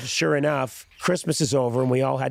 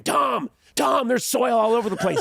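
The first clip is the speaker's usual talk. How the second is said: higher, fast, scolding mom voice; mock furious mom; 12 semitones higher than usual. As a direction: scold Tom in a mild mock fury. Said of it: "my mom was always furious and saying".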